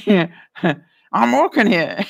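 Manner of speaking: slow, lightly voiced street yell, words round a cigarette; mock Dustin Hoffman with a cigarette. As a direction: drag it out like a cigarette in your mouth. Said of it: "said it with a cigarette in his mouth".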